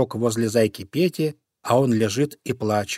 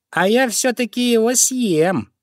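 higher stubborn fox voice; defiant fox; 10 semitones higher than usual. Acted. Fox defiantly answers the crow, higher. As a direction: insist you'll eat him.

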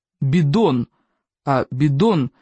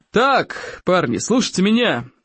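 roaring; slower than usual. Acted. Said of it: "проревел Плевака".

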